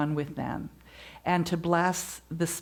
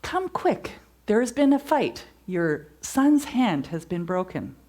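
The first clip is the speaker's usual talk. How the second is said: much higher, urgent call of alarm; 3 semitones higher, 3 dB louder than usual. Retold or imitated. Messenger urgently telling the parent their son is hurt. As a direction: break the bad news in a rush of alarm.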